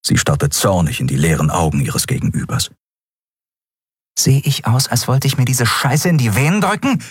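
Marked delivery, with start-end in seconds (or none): 4.2-7.0 angry, higher-pitched retort; snarling. A narrator's reading. Andriel rejects the drug dealer, snarling. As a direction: snarl it at him in disgust. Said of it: "fauchte sie".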